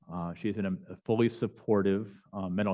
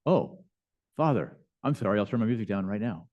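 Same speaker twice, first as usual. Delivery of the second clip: bombastic fake apology. Neighbor mockingly apologizing to the priest, bombastic. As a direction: overblown sarcastic sorry, trailing back to normal. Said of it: "so bombastically that first day".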